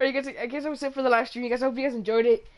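fast, loud, upbeat outro; streamer sign-off. Real, not acted. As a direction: wrap up the stream cheerfully. Signing off the livestream.

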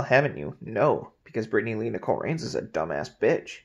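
talking into a glass rim; muffled by drinking glass; speaking with glass at lips. Real, not acted. Seen 0: Glass rim held against lips throughout the labelled speech.

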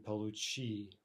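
получи stressed on the final чи; end stress. Shown as a demonstration. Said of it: "the stress pattern also affects the".

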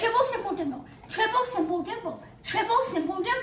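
slow tongue twister. Shown as a demonstration. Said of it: "That was slow".

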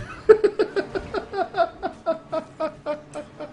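high helpless laughter; long high laughing fit. Real, not acted. Laughing at game.

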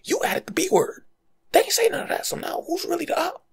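high, loud accusing rant; indignant call-out. Retold or imitated. To a friend who added extra words, a high indignant call-out. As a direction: catch the liar out, voice climbing.

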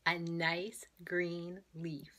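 slow, secretive whisper; whispered answer. Acted. Librarian whispering the answer to children.

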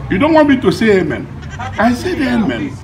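high, loud indignant comeback; indignant protest. Acted. Challenged over saying amen, indignant protest. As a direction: protest loudly in a high-pitched voice.

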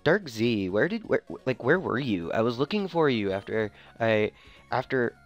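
put-on airy valley girl voice. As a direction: play it like a bubbly valley girl. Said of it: "Did I give her the Valley Girl voice?".

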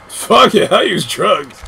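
excited shout. Real, not acted. Excited gamer outburst.

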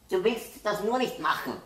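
loud, high furious yell; angry shout. A narrator's reading. Boy accuses his sister, shouting angrily. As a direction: keep yelling at her. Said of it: "brüllt Andi".

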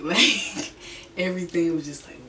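giggling through the word; laughing. Real, not acted. Laughing recalling spinning.

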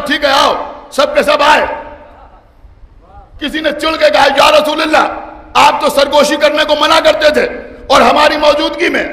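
loud, high, rising majlis oratory; preaching at full force. Acted. Preacher to majlis audience recounting the Prophet, full-force oration. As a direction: declaim it to the gathering, building to chanted climax.

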